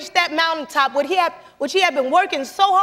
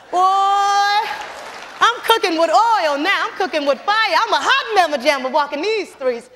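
mock triumph; 2 semitones higher than usual. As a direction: crow about your win playfully. Retold triumphant self-talk.

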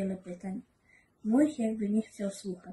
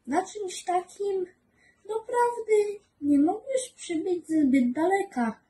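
put-on higher, slow amused child voice; high little prince voice with a half laugh; 10 semitones higher, 3 dB louder than usual. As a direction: tease him gently as a small boy.

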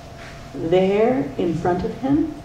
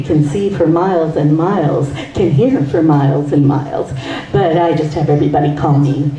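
low, laughing Miles voice; 3 semitones lower than usual. Acted. Miles introduces himself.

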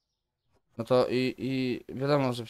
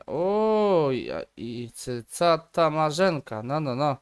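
mock surprise; 2 semitones higher, much slower than usual. Greeting customer in shop game.

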